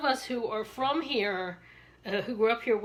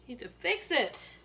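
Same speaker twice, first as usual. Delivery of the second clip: sassy honey; 6 semitones higher, 3 dB louder than usual. Retold or imitated. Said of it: "I'm like".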